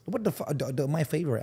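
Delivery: lightly put-on Thai accent; mock Thai accent. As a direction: imitate a Thai accent for comedy.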